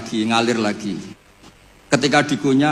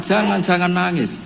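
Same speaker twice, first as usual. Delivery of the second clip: mild angry scolding; 4 semitones higher, slower than usual. Acted. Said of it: "Beliau ya marah".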